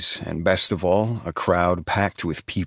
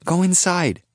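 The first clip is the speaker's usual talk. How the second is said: calling softly; 14 semitones higher, 4 dB louder than usual. A narrator's reading. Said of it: "Kirby calls softly".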